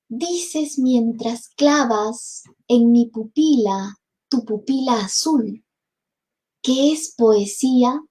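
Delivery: slow, tender reading of verse; poem recitation. Acted. Teacher reciting Bécquer to the class, tender.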